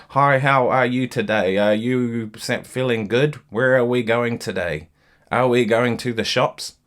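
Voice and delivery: slow monotone with every word given the same weight; deliberately lifeless sing-song with no shape; flat, no dynamics. Shown as a demonstration. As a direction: talk like a phrase that never rises or falls. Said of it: "You just wouldn't talk like that".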